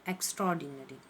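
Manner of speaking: extraordinary repeated as eks-tror-di-nary, quiet and low; correct pronunciation. Shown as a demonstration. Teacher repeating extraordinary to the class. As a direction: repeat extraordinary gently for students. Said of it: "सही pronouncing".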